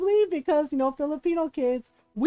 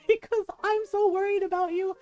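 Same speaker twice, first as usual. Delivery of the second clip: higher-pitched mock tirade; imitated yelling; 5 semitones higher than usual. Mother berates son as police watch, imitated yelling. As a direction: play an exasperated mother scolding. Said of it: "yelling in Spanish".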